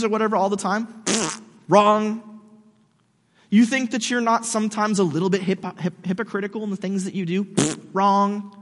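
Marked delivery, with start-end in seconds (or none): 1.0-1.4 short dismissive mouth buzz; mock buzzer noise. Mock quiz answer to own question. 7.4-7.8 short dismissive mouth buzz; mock buzzer noise. Mock quiz answer to own question.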